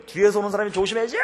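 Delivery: high, loud retold scolding; angry shout. Cyclist chasing the scooter to correct her, angry shout. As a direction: imitate your own temper bursting out. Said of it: "하고 소리 질렀어요".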